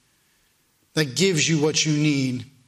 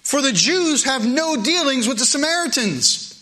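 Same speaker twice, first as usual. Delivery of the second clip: lightly voiced woman, higher and wondering; a hint of the puzzled woman asking why; woman puzzling aloud; 7 semitones higher than usual. Preacher voicing the Samaritan woman's puzzled question. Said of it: "She starts thinking right away".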